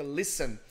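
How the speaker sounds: "listen" said LIS-en with no t; silent t. Shown as a demonstration. Teacher models "listen" for his student, t left silent. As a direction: drop the t in "listen". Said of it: "não pode pronunciar esse T".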